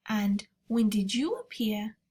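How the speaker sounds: whispered question; a hushed, curious little girl. Acted. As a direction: breathe it out, barely voiced. Sophie asks the giant.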